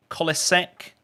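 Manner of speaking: "Kolacek" with an S sound before the final ek; guessed pronunciation. Shown as a demonstration. Streamer asks chatter how to say the name, trying "Kolacek" as KOLL-a-seck. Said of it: "Don't know how you pronounce that".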